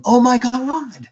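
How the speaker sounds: high-pitched amazed cry, God stretched out; retold scream. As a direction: cry out in high, drawn-out disbelief. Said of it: "you literally hear her scream".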